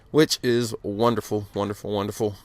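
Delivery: stuttering a little from the cold; shivering, words catching in the cold. Real, not acted. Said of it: "if I'm sounding like I'm stuttering".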